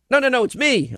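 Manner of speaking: lightly voiced pushy caller; caller's voice. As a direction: play the eager stranger insisting. Retold phone call, caller voiced.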